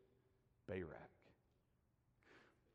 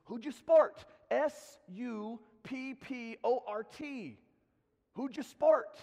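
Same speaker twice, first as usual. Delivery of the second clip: loud, high imitation Scottish accent; Adam; 9 semitones higher, 8 dB louder, slower than usual. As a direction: spell it out slowly and emphatically as a mock Scotsman. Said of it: "So finally he spelled it".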